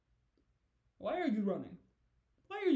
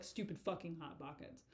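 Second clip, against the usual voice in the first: softer, grumbled under the breath; muttering; 2 semitones lower, 7 dB quieter than usual. Retold or imitated. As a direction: mutter it like a friend walking off annoyed. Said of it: "just muttering as he walks away".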